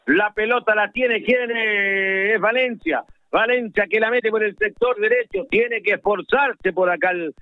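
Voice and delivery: football radio commentary, running with the ball; South American radio football commentator; live play-by-play. Real, not acted. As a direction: call the match live on radio.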